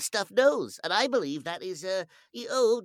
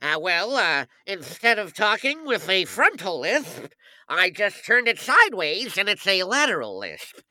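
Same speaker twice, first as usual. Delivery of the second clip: Joe Alasky impression; 5 dB louder than usual. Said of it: "classic Joe Alasky going".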